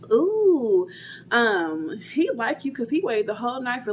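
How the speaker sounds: high, teasing sing-song; egging him on, a touch playful; teasing friend. Retold or imitated. Friend teasing her about the guy, lightly mocking. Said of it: "she's, like, kinda, like, egging him on".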